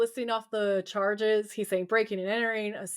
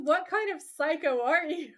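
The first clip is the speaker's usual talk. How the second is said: higher, amused imitation of disbelief; mock incredulity; 5 semitones higher than usual. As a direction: act appalled while close to laughing. Retold victim's reaction, amused teller.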